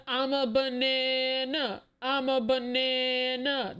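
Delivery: slow, lightly sung-song imitation of a catchphrase; imitating the banana guy. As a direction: drag out the catchphrase slowly, half-mocking.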